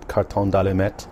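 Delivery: "carton d'allumette" with French vowels; French pronunciation. Shown as a demonstration. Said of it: "How do you say matchbox in, in French?".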